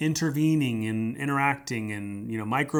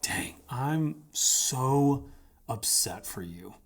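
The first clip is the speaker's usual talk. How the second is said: hushed, breathy sympathy; soft whispered comfort; much slower than usual. Shown as a demonstration. Pastor showing what to say to a hurt friend, whispered. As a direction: lean in and whisper it gently. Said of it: "I will say something like".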